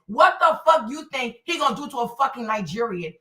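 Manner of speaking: usual speaking voice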